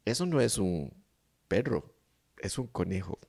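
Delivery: put-on toddler's correction. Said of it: "lo que me dijo".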